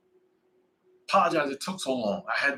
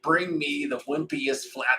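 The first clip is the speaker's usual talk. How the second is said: dad line; slower than usual. Retold or imitated. Ordering wings, he slowly hams up his corny dad line. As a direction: savor each word like a proud corny dad. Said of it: "I'm always like".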